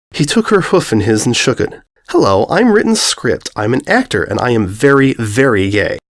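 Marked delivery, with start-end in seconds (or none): 2.1-6.0 sing-song friendly intro; bright stallion voice. Acted. Script introducing himself.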